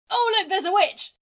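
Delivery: loud, high hammed-up cry; mock scream. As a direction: shriek in mock terror at the witch. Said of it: "She's looking around going".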